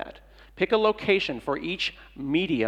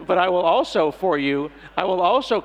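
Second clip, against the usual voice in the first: loud, punchy but I will also; booming comic build-up; emphatic also; 3 semitones higher, 5 dB louder than usual. Acted. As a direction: land it with a burst of volume.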